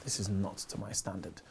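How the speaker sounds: low, quiet unimpressed snob; mock stuck-up. Stushy Londoner judges the comedian's act, mock stuck-up. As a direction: refuse to be amused, soft and low. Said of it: "like, the stushiest".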